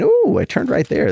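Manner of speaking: sudden high, pleased ooh; real delight at a smooth page turn. Real, not acted. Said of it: "That was great page turn".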